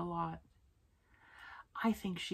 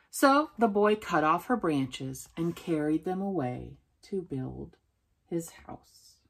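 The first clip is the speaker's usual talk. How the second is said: story read-aloud; 5 dB louder than usual. A narrator's reading. Telling how the boy took the branches, subdued storytelling. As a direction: read it out, letting the last words drop away.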